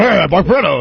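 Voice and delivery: high, loud nervous mimicry; squeaky jittery impression; mock nervous voice. Mocking nervous voice.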